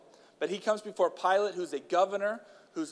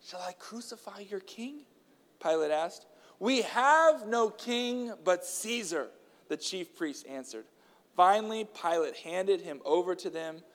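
earnest, raised reading voice; scripture reading; 3 semitones higher, slower than usual. A narrator's reading. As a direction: read the Gospel aloud to the church.

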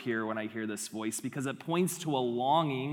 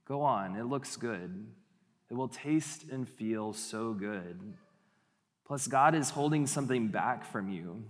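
tempter's whisper; 3 semitones lower than usual. Acted. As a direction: lure them in gently, barely above a whisper. Tempter voice from the garden.

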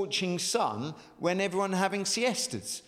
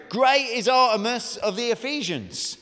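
shouting crowd; 6 semitones higher, 5 dB louder than usual. Acted.

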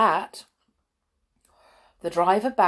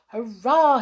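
brief, mildly raised hurrah; private cheer; 4 semitones higher, 7 dB louder than usual. A narrator's reading. Hop spotting the stop wheel, contained cheer. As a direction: cheer to yourself, short of shouting. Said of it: "he thought".

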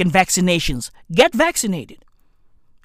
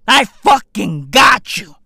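slow shout; 4 dB louder than usual. Real, not acted. Escalating promise.

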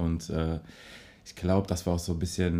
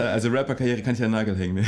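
laughing; 2 semitones higher, 4 dB louder, faster than usual. Real, not acted. Laughing after bad freestyle.

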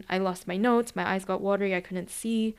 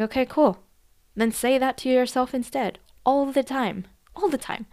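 upbeat urging; 5 semitones higher, 4 dB louder than usual. Retold or imitated. Coach urging client, rising energy.

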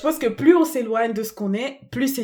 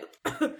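short dry cough; coughing fit; 4 dB quieter than usual. Real, not acted. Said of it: "Et je tousse".

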